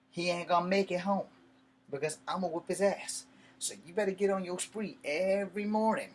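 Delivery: firm, emphatic warning, pitch pushed up; retold threat. Telling her he'll whoop him, retold angry threat.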